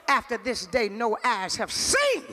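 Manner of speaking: low, weighty proclamation slowing down; prophetic declaration. Real, not acted. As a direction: proclaim it, stretching the last word. Delivers a slow prophecy.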